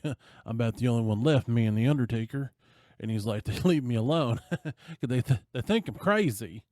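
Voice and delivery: laughing bar owner. Retold or imitated. Bar owner tells the stranger he's left alone, laughing as he says it. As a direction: play a half-crazy barman chuckling.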